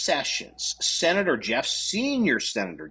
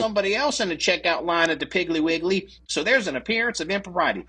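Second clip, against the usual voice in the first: higher-pitched parody of a feeble excuse; mock an over-scrupulous official, pitched up; mimicking a lame justification; mock excuse-making; 6 semitones higher, faster than usual. Mocking a feeble recusal excuse.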